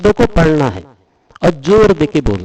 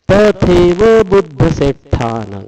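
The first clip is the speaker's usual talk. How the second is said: slow, measured verse reading; Pali recitation; slower than usual. Shown as a demonstration. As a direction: intone each Pali word deliberately.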